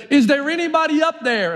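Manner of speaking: put-on old man dangling from a branch, calling up for help; mock yell. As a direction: call up to the top of the cliff, pitched high. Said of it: "he yells up over the cliff".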